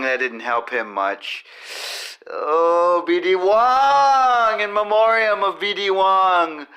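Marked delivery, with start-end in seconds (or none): 2.3-6.7 mock solemn tribute.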